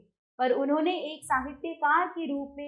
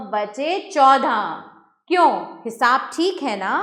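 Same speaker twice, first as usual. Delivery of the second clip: stern tone. Acted. Landlord to governess, lecturing her about the pay, in a stern tone. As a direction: press the point like a strict boss. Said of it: "कड़े स्वर में".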